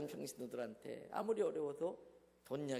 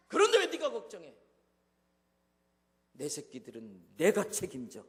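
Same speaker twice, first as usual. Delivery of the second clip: booming voice of God; 2 semitones lower, 10 dB louder than usual. Retold or imitated. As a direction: boom the question, then settle into a firm vow. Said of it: "더 끈".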